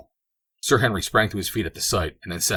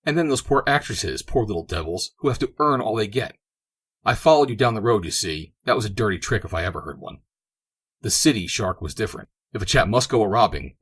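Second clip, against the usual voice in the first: put-on agitated young friend; 2 semitones higher, 4 dB louder than usual. Barker confronting Sir Henry over the robbery, rising indignation. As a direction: press the grievance, getting worked up.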